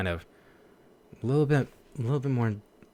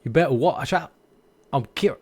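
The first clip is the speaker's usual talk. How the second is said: British accent. Shown as a demonstration. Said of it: "So British".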